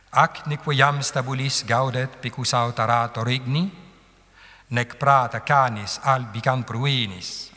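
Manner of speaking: measured verse recitation with long syllables held; scanned Latin distich. Shown as a demonstration. Teacher reads the following distich for students, metrical recitation. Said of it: "on sent le rythme iambique du deuxième vers".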